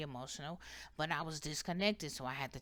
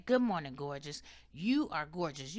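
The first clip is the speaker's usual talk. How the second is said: light affirmation. Shown as a demonstration. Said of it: "look in the mirror and say".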